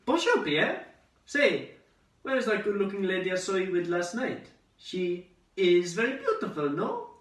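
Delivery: high, loud, eager play-acting; exaggerated cheery small talk with lilting questions; imagined baker chat. Daydreamed chat between Jude and baker friend, high and chirpy. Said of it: "make friends with a, a baker".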